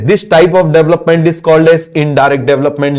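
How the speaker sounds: slow, evenly spaced dictation; slow teacher dictation pace; slow dictation again. Shown as a demonstration. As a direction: dictate each word for the notebook. Dictating a definition.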